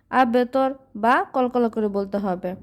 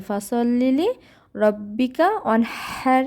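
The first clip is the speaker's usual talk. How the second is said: slow, drawn-out melodic recitation; tajweed recitation; Quran recitation; much slower than usual. Shown as a demonstration. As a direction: chant each word long and even. Recites verse.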